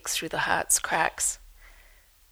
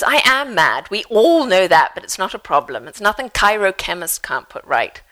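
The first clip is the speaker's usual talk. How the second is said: louder, cheerful mother's voice; lightly voiced mother; 7 dB louder than usual. A narrator's reading. Author reading Mum's line, a hint of the mother. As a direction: Mum brushing off madness. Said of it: "Mum agrees".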